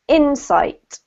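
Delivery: insight as INsight; stress on first syllable. Shown as a demonstration. Teacher models insight for the student, first syllable stressed. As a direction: lean on IN in insight. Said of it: "emphasis on the first syllable".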